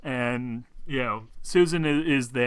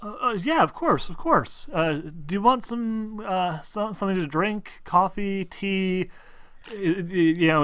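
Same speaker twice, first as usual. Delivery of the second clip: higher, stammering and flustered; flustered host; 6 semitones higher than usual. Acted. Nervous host fussing over her guest, flustered.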